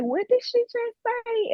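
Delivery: high, slow, put-on voice of a baffled man; imitating tattoo shop owner. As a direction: tattoo shop owner who can't follow her accent. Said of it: "he was like".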